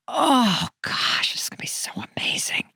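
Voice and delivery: whispered, giddy anticipation of bed; excited whisper. Pretend. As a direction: breathe it out like a secret treat. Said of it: "you're like".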